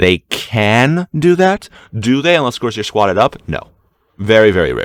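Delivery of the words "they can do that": heavy, strong stress on the word can. Breaking down what a team can do, stress on can. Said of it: "I have to stress the word can on that one".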